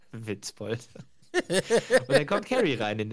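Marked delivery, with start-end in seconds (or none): 0.1-0.9 softer smug retort; understated smug jibe. Retold or imitated. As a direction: drop it quietly, smugly. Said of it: "Und Duck wirklich so suffisant".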